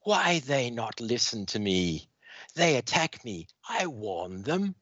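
a hint of a broken-English alien villain; lightly voiced menacing alien, slowing at the end. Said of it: "she says".

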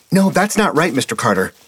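put-on high, eager correcting child; a boy who can't stop lecturing; whiny know-it-all kid. A narrator's reading. Steve correcting Mister Carter, high kid voice.

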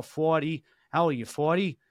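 Boston accent, dropped R in forty and north; mock Boston directions with the R dropped. Shown as a demonstration. Comic showing Boston O and R sounds, Boston accent. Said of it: "the O's".

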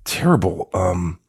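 mock sympathy turning into a blunt request, laughing at the end; deadpan selfish plea. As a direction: feign concern, then ask her to pull it together. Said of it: "And I was like".

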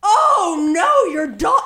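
loud high wail of sympathy; mock anguished cry. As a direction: overreact to the dog's death. Group reacts to dog dying.

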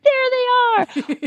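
high, slow excited cry of spotting them; excited call. Retold or imitated. To her mom on spotting wild horses, high excited cry.

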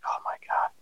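breathless whispered panic; scared whisper. Retold or imitated. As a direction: whisper it like you're frozen in pain. Panicked thought during full-body cramps.

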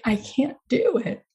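mild mock of crying out in defeat; retold tearful cry. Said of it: "I just broke into tears".

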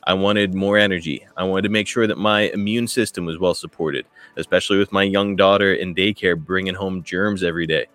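upbeat sponsor read over music. Acted. Host reads sponsor spot to listeners, upbeat ad read. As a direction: sell it like a friendly podcast ad.

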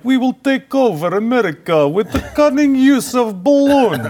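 hammed-up world-domination announcement; mock Russian boast. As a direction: crow it like a cartoon schemer. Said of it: "imagine the Russians now like".

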